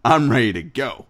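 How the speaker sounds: ready to go, amped; hyped ready to go. Retold or imitated. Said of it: "where it's like".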